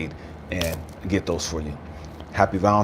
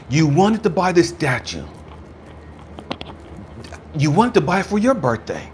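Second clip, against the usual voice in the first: higher, impassioned retelling; emotional recollection; 6 semitones higher than usual. Retold or imitated. Store man reminding widower of his birthday wish, voice raised with emotion. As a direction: lift the voice with feeling, pausing between phrases.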